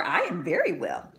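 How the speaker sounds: a hint of a small boy, brisk and bright; lightly voiced boy. Son answering his mother, a touch of boyish voice. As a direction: answer as the little son, simply.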